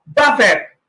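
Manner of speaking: buffet said as "BA-fet" with the t; wrong pronunciation. Shown as a demonstration. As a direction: say buffet as "bafet". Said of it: "ito, wrong pronunciation".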